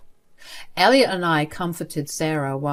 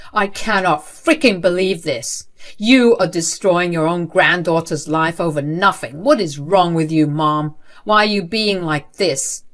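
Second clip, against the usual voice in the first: loud, furious tirade; raging at mom; 6 dB louder than usual. Acted. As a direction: blast her with it, voice raised throughout. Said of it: "Elliot was raging at his mom".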